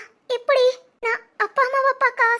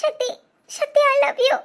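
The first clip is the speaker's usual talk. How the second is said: sobbing out a declaration of love; tearful, choked I love you; crying I love you; 2 semitones higher, slower than usual. Acted. Wife telling her husband she loves him, crying. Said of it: "அதை எதுக்கு அழுதுகிட்டே சொல்ற".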